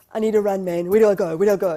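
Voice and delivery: loud panicked cry. Retold or imitated. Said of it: "I'm like".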